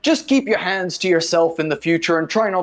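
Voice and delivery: prim official shooing a stranger away; lightly voiced stern official, polite but firm; official dismissing.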